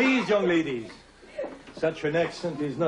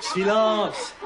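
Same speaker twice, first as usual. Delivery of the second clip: stern command; 5 semitones higher, 4 dB louder than usual. Acted. Teacher scolds giggling pupil.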